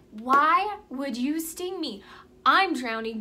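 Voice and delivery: drawn-out, lightly dramatized disbelief; dismayed frog. Acted. Drowning frog confronts the scorpion, mildly anguished protest. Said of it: "and he says".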